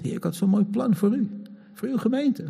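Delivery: mock whining prayer. Voicing own complaint to God.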